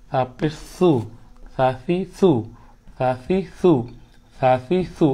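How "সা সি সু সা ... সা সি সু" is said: সা সি সু with a very soft, unhissed first consonant. Shown as a demonstration. Teacher models the letter for students, সা সি সু very soft. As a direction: say সা, সি, সু completely soft. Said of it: "একদম নরম".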